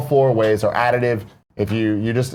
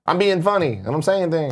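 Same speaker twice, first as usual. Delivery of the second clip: higher-pitched mock whine; whiny rapper; 5 semitones higher than usual. Host mimicking a rapper's early voice, whiny and high. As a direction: imitate a rapper whining that he's joking. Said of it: "'cause he had the whiny".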